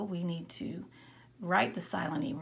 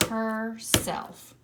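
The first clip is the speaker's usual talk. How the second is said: "Herself" louder, split into her and self; clapping syllables; 3 semitones higher, 4 dB louder than usual. Shown as a demonstration. Teacher clapping out herself with the class. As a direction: clap her, self loudly. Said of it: "Try it again".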